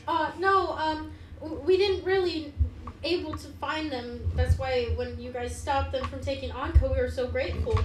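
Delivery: lightly voiced apologetic mayor; grateful town mayor. Mayor thanks the party for stopping them, lightly voiced gratitude. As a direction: explain as a thankful townsperson, lightly acted. Game master answers as the mayor.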